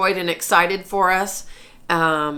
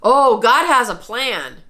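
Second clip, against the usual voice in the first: retold awed exclamation, mildly raised; mild mock exclaim; said out loud; 4 semitones higher, 4 dB louder than usual. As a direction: blurt it out in wonder. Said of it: "out loud".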